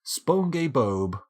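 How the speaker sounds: slow, loud cartoon-voice attempt; SpongeBob. Shown as a demonstration. Streamer who can't do the voice tries again, slow mock SpongeBob. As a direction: draw the name out in a poor cartoon voice. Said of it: "doesn't sound anything like SpongeBob".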